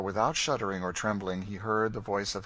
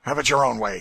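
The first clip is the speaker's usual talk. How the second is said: doggedly; 3 semitones higher, 12 dB louder than usual. A narrator's reading. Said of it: "he said doggedly to Cassie".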